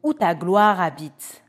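loud, solemn prayer read; psalm declamation. Acted. A psalmist pleading to God, loud solemn prayer. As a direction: proclaim the psalm as a fervent prayer.

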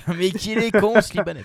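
laughing. Acted. Repeats insult laughing.

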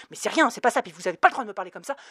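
flustered, fast, mumbled protest; mild stammering protest. Acted. Clerk flustered and blushing, stammering protest. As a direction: stumble over the words, scandalized. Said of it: "bafouilla la guichetière cramoisie".

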